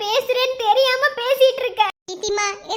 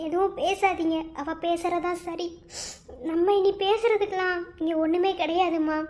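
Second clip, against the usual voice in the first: low, soft, resigned; broken son telling mother to stop; defeated and quiet; 7 semitones lower, 6 dB quieter than usual. Acted. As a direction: give up, voice sunk and soft. Defeated son hushing his mother.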